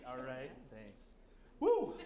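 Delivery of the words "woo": excited cheer. Acted. Cheering himself on stage.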